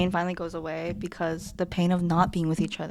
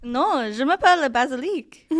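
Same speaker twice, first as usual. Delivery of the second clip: mock French accent; 5 semitones higher than usual. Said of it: "Definitely not English".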